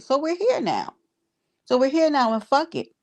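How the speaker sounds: high, sharp fed-up declaration; high defiant outburst. Real, not acted. Calling out her rival in high defiance. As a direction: toss it off in defiance.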